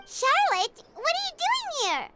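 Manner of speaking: high, surprised questioning; astonished recognition. Acted. Companion catches Charlotte following them, astonished question. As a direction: pitch jumps up in astonishment.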